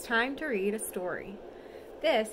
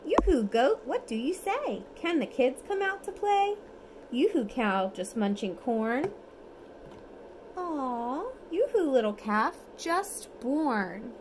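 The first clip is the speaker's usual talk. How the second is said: lively storybook reading, sing-song; reading to children; 3 semitones higher than usual. Acted. Parent reads bedtime picture book to toddler, lively sing-song. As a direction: read it brightly for a toddler at bedtime.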